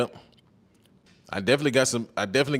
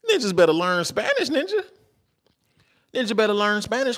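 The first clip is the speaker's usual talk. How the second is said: hyped urging; 11 semitones higher than usual. Real, not acted. Urging guys to learn Spanish.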